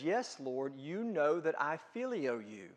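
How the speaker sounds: soft, low, half-hearted yes; mumbled reply. Retold or imitated. Peter answering Jesus with a soft, reluctant mumble. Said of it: "He didn't say it like that".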